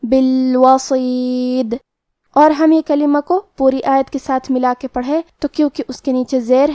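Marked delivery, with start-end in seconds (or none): 0.0-1.7 بالوسید slow, heavy ص, final د bounced; qalqala on dal. Shown as a demonstration. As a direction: stop on بالوسید with a د echo. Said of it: "دال کو قلقلہ سے پڑھنا ہے". (دال پر قلقلہ)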